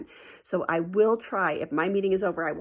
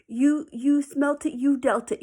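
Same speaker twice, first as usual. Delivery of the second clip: put-on taunting kid; 7 semitones higher, 5 dB louder, slower than usual. Kids blaming each other.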